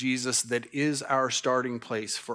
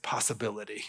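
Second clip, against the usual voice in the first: put-on Southern accent; 5 semitones lower, 8 dB quieter than usual. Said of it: "would like to say in his Southern accent".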